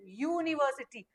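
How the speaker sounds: यूनिवर्सिटी opening on a clear "y" glide, "yoo"; y-sound demonstration. Shown as a demonstration. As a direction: bring out the "yoo" starting यूनिवर्सिटी. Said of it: "वाई वाला sound आ रहा है". (यूनिवर्सिटी, शुरू में "य" की आवाज़)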